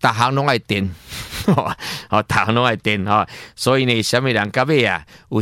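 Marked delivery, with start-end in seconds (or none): 0.9-2.0 soft, breathy little chuckle; short chuckle. Real, not acted. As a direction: let out a brief, quiet laugh. Chuckles between remarks on electricity.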